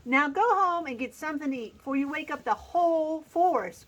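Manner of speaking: a touch of an angry shout; mildly scolding the dragon; lightly voiced angry squirrel. A narrator's reading. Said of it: "cried the angry squirrel".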